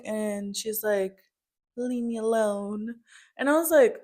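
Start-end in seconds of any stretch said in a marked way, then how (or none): 1.8-3.0 imitated upset rebuff. Retelling mother's upset rebuff.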